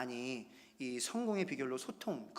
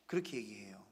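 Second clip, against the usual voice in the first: usual speaking voice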